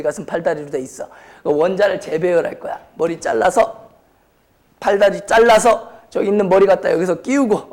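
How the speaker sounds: ordinary delivery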